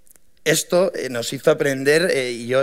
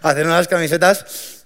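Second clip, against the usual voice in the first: put-on raised, pleading voice, begging the shop girl; half-mock begging, louder on por favor; retold desperate pleading; 4 semitones higher, 4 dB louder than usual. Young founders begging the printer to fix the shirts, desperate pleading. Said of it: "acabamos llorando".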